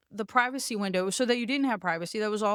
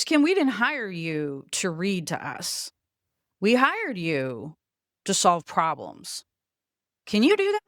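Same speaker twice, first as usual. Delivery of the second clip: stern boss; 3 semitones lower than usual. Retold or imitated. Boss scolding her in meeting.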